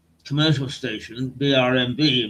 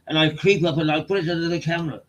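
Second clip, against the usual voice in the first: put-on Black Country accent; 3 semitones higher, faster than usual. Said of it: "black country accents".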